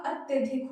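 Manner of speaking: अत्यधिक said slowly and clearly, the correct form; slow correct pronunciation. Shown as a demonstration. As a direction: model अत्यधिक slowly for the class. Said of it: "अत्याधिक की जगह क्या होगा?".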